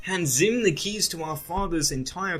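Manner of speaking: sarcasm dripping from every word; sarcastic sister. Retold or imitated. Voicing Gaz sarcastically.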